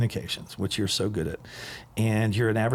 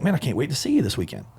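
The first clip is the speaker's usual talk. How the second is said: higher, quick imitation of an eager friend; super excited; 4 semitones higher, faster than usual. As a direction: rush it out like an eager buddy. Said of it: "He's super excited".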